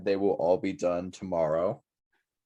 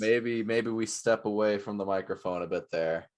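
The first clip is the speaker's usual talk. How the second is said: stepped back from the microphone; far from mic. Real, not acted. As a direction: voice distant, off mic. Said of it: "That sounded bad".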